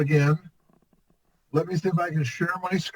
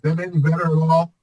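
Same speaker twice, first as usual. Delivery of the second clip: echoing tunnel; 5 dB louder than usual. Real, not acted. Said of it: "you're still got that hollow sound".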